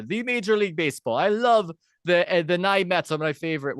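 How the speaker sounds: mock Eastern European accent; lightly put-on Eastern European accent. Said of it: "doing an Eastern European accent".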